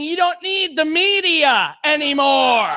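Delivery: slow, drawn-out mock fit of rage. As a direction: declare it in hammed-up fury, slowly. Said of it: "in a fit of rage".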